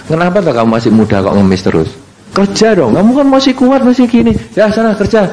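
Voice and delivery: preachy scolding. Retold or imitated. Lecturing a beggar from car.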